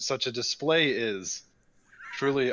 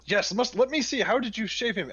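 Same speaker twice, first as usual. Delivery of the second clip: intrigued; 10 semitones higher than usual. Acted. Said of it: "I'm gonna lean in, like, real close".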